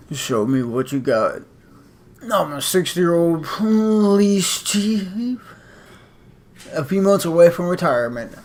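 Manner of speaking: slow, weary police chief voice; good cop voice. Acted. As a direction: play a tired old police chief, slowly. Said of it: "Gotta get a good cop voice".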